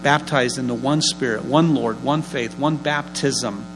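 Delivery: measured, reverent blessing; solemn blessing. Acted. Preacher blessing the church, measured and reverent.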